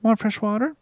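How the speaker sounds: high-pitched parrot mimicry of a woman; parrot mimicking Carrie. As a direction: chirp it up high like a talking parrot. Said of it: "she mocks Carrie perfectly".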